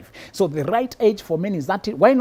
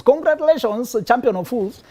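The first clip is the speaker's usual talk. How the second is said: mock congratulations; 5 semitones higher than usual. Mock praise for top fool.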